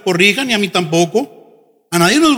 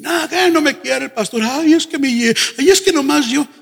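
mock complaint; 4 semitones higher than usual. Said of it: "Diciendo que".

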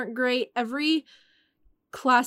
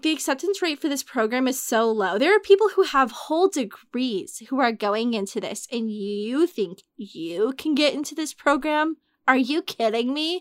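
mocking advisor. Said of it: "laughed in my face and was like".

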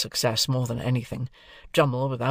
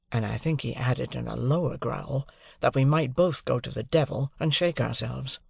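usual speaking voice

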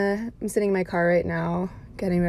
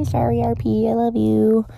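loud playful apology; 4 semitones higher, 6 dB louder than usual. Real, not acted. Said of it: "apology to brother".

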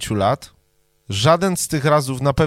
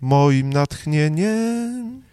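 drawn out very slowly, mock pleading; mock dramatic plea; 2 semitones higher, much slower than usual. Cohost begging to be inspired, very slow mock plea. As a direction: stretch each syllable like a lovesick poet. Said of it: "Naucz mnie".

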